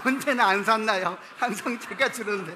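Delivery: loud and laughing. Real, not acted. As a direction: laugh through the self-mocking punchline. Laughing at his own joke.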